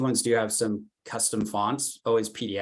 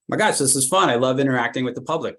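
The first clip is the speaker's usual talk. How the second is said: mock-excited student, higher and louder; gushing delight; 4 semitones higher, 5 dB louder than usual. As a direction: gush as if you love the job. Acting a student loving campus job.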